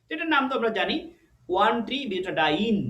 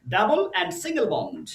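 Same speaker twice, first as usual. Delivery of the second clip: slow, deliberate term; 3 semitones higher, much slower than usual. Shown as a demonstration. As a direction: alternate double and single bond spelled out slowly. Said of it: "আমরা বলি যে কি". (ধীরে ধীরে সংজ্ঞা বলা)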